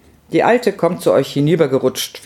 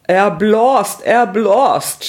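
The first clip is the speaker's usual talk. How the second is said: higher, excited cry in dialect; wife's incredulous shout; shrieking; 7 semitones higher, 4 dB louder, much slower than usual. A narrator's reading. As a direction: cry it out in mocking disbelief. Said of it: "schrie Frau Häsli".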